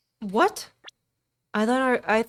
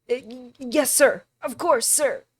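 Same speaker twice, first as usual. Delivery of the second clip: nervous officer; 6 semitones higher, 7 dB louder than usual. Acted.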